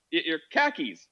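"khakis" with a short flat a, in mock Boston exchange; Boston accent meme. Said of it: "Yeah, it's Boston".

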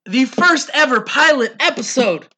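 grand showman announcement; ringmaster. Acted. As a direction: boom it out like a circus ringmaster. Opening announcement of podcast.

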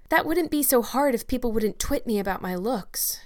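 put-on a girl sighing her complaint. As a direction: let the words sag on a sigh. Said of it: "said Anne with a sigh".

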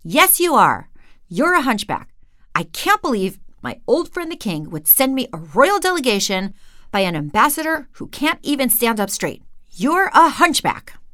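the king berating the servant about his back; indignant king. Acted. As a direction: insist harder with every sentence. King insists, outraged.

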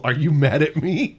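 high-pitched teasing question; mock scared teenager. Friend teasing a grown man's reaction, mock timid teen. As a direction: imitate a timid kid, voice lifting at the end. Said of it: "some nineteen-year-old dick who's like".

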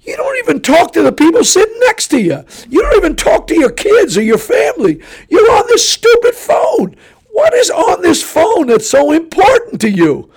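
exasperated shout. Retold or imitated. Preacher ranting at phone-obsessed travelers, shouting high. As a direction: yell it out in disbelief. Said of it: "And I'm going".

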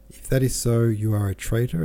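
loud flare of temper at the accused; the Count loudly threatening the lying tradesman, angry; angry outburst. Acted. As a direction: bark the threat at him. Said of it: "He flared up dreadfully".

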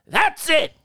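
high, emphatic cut-off; mock exasperation. Podcaster banning a topic, exasperated. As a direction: shut the topic down in mock outrage.

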